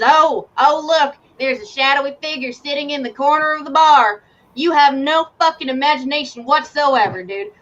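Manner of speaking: mock the cliché scene. Terrence mocks the GM.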